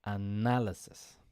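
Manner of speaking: analysis with the stress on the second syllable, na; teacher modelling analysis, stress on na. Shown as a demonstration. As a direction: say analysis, leaning on na. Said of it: "the pronunciation is".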